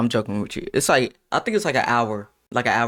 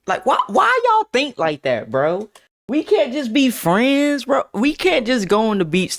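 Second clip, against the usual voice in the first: indignant protest; 9 semitones higher than usual. Real, not acted. Protesting friend's teasing.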